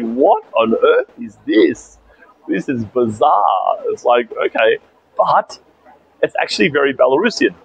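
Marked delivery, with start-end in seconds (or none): 0.0-3.8 slow bewilderment. Real, not acted. Baffled by a courtesy call.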